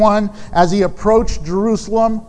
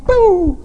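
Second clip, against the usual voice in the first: mock wail; 11 semitones higher, 4 dB louder than usual. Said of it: "She's mourning".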